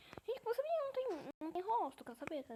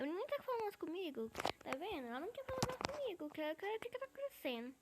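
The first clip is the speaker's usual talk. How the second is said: whiny complaint; 6 semitones higher than usual. Real, not acted. Player stops talking to him.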